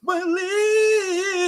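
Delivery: high shouted welcome; loud greeting. Real, not acted. Both hosts shout a greeting.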